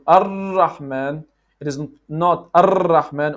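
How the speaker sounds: 'Ar-Rahman' with a long repeated roll; over-trilled R. Shown as a demonstration. Teacher recapping what it is not, over-trilled R.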